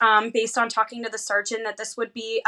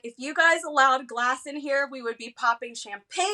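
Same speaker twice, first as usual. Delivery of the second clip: higher, louder giddy gush; bubbling over with joy; mock-celebrating in the hospital room, giddy; 3 semitones higher, 5 dB louder than usual. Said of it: "I was like".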